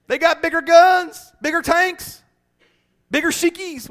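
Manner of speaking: mock blubbering complaint; mock weeping soldier. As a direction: whimper out the list of enemy weapons. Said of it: "starts weeping and crying".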